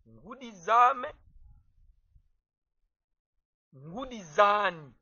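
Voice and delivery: Ngudi zame, ngudi zani said slowly and clearly; slow model pronunciation. Shown as a demonstration. Teacher modelling plural forms for students, slowly. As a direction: draw out each word for learners. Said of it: "on fait précéder les Z".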